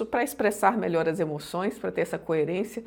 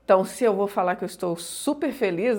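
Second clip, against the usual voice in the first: ordinary delivery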